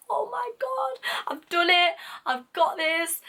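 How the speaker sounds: high, loud giddy celebration; excited squeal. Retold or imitated. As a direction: squeal with joy at good news. Celebrating passing the interview.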